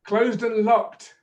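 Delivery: teacher leading a repetition drill. Shown as a demonstration. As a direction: clear modelling for the student. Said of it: "repeat after me".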